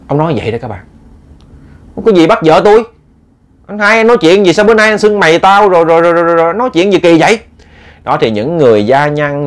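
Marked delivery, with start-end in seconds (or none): 2.0-7.4 raised, startled protest; husband shocked and offended by the insult; indignant protest. Acted. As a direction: push back, high and shocked. Ba protests, upset.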